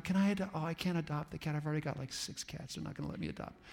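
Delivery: cat lady fretting under her breath; thinking aloud. Retold or imitated. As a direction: talk yourself out of it. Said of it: "she's thinking aloud".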